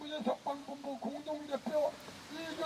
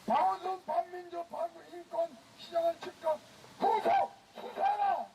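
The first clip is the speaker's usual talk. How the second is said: roaring rallying speech; 2 semitones higher than usual. Real, not acted. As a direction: roar the demand to the crowd. Leading crowd chant at rally.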